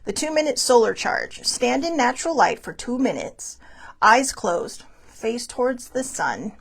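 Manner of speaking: measured self-help tip read; wellness read. Acted. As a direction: read it like a calm affirmation card. Rereads the tip once more.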